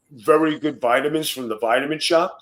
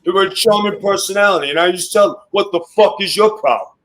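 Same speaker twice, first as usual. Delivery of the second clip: excited storytelling; 6 semitones higher, 6 dB louder than usual. Real, not acted.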